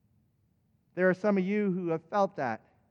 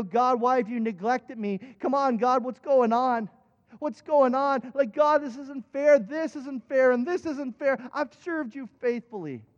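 exasperated plea; 4 semitones higher than usual. Retold or imitated. Acts out own complaint to God.

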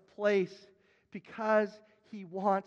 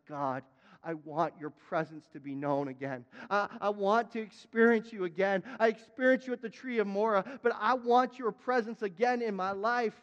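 crying out. Acted. Preacher as Abraham pleading for God's presence, building cry. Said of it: "And he cries out".

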